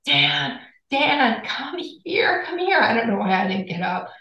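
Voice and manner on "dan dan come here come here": high-pitched mock call with no real volume; calling out to a husband, half-voiced yell; retold yell. Wife calling husband from the bedroom, mild mock yell. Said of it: "I'm yelling from the bedroom".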